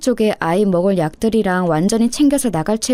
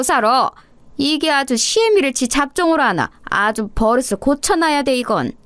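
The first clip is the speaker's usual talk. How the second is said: a scolding mother-in-law, pitch raised somewhat; shouting mother-in-law; 4 semitones higher than usual. Acted. Mother-in-law yelling at daughter-in-law to stay, scolding shout. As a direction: bark at the daughter-in-law like a fierce elder. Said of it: "거기 있어보라고 소리를 지르시는 거예요".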